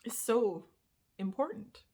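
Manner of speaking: fighting tears on the key word; holding back tears. Real, not acted. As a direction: voice catching and rising on important. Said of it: "I'm so emotional right now".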